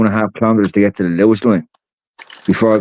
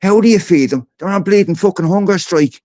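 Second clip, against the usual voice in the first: retold disbelief; 12 semitones higher than usual. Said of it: "And I'm saying".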